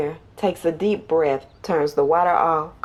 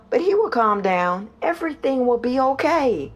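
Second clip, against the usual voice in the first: higher-pitched, earnest comforting; reassuring; 6 semitones higher than usual. Acted. Mother promises worried son she will return, reassuringly. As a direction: promise gently that all will be fine.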